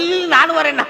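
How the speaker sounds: high-pitched, playful "wait for me" call; father running after. Acted. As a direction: call out in mock haste to be waited for. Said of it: "அப்பா பின்னாடியே ஓடி வந்துட்டாராம்". (பின்னால் ஓடிவரும் அப்பாவின் உயர்ந்த குரல்)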